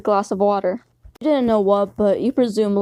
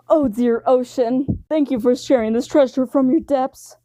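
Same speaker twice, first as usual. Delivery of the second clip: dramatic suitor; 3 semitones higher than usual. Acted. Sanji praising the ocean for a treasure, dramatic. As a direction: proclaim it like a romantic poet.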